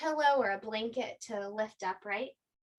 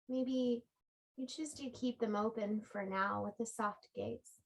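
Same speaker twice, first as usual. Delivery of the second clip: calm yoga-teacher guidance with long pauses; unhurried body-scan meditation voice; guided relaxation. Real, not acted. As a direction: guide them gently into rest, phrase by phrase. Leads a restorative relaxation.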